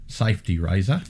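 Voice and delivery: horrible mock Australian accent; lightly hammed Australian accent; bad Australian accent. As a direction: put on a bad Aussie accent. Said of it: "That was a horrible Australian accent".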